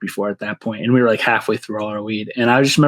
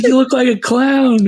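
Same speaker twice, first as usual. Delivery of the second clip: high, giggling line; laughing; 13 semitones higher, 4 dB louder than usual. Retold or imitated. Stoned teen telling his friend he looks like a clown, laughing. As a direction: still cracking up while saying it.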